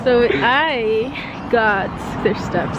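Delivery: very slow, stoned; stoner. Real, not acted. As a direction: let the words drag, high. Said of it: "I'm pretty high right now".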